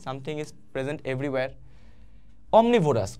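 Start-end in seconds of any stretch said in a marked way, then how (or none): 0.1-1.5 slow, soft summary of the meaning. Shown as a demonstration. Teacher summing up what omnipresent means, slowly and softly. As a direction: spell it out slowly and gently. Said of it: "কোথায়?".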